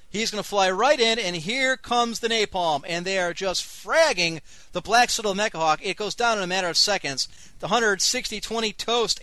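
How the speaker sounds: punchy live battle commentary, key words stretched; dramatic game-caster delivery; excited play-by-play. Acted. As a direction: call the air raid like a sportscaster. Live play-by-play of an air raid.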